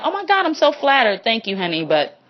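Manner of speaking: gushing thanks easing into a quiet refusal; soft let-down. Shown as a demonstration. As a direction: let them down sweetly. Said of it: "You start with the softness saying".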